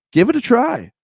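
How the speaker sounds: carnival barker. Pretend. Carnival barker style pitch.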